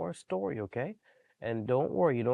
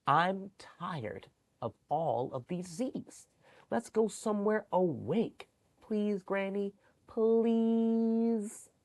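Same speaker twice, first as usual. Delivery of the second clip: put-on high pleading little girl; whiny pleading child voice; begging child; 9 semitones higher, slower than usual. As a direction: beg Granny like a restless kid. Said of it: "She begged Granny".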